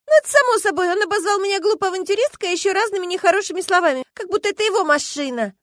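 high, loud complaint; indignant friend. Acted. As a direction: vent about him, indignant. Friend complains about boyfriend.

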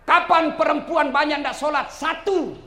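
tag. Real, not acted. Preacher poses question to crowd.

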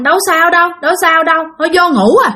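wife deflecting worry; dismissive denial. Acted. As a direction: act out waving away concern. Startled wife brushes off worried husband.

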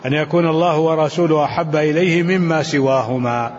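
measured classical Arabic text reading; deliberate recitation of a commentary, phrase by phrase; formal read-aloud. Acted. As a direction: read the scholarly text out evenly. Reads the hadith text.

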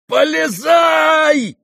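very high, loud, drawn-out bellow; roaring shout. Acted. Ferdyshchenko yanking Ganya's sleeve, roaring a command. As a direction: roar the order in a frenzy. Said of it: "заревел Фердыщенко".

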